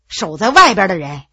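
ordinary delivery, nothing marked

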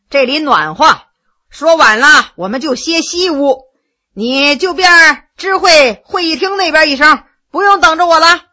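loud, easy commands of a master; a lord tossing out orders to a servant; Heshen giving orders. Acted. Heshen orders the maid to bring the guest, loud and casual.

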